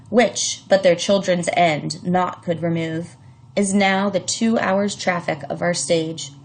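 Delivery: measured, deliberate reading of verse; poem reading. Shown as a demonstration. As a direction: read the sonnet like a performance. Teacher reads the prologue aloud.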